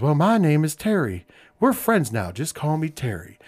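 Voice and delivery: lightly imitated soft-spoken veteran; a hint of a friendly old wrestler's voice; Terry Funk. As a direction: gently imitate him, easing off at the end. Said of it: "when I did the voice, he's very soft-spoken".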